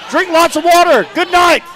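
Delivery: high, loud hyped farewell; excited sign-off. Real, not acted. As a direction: fire off the goodbye with energy.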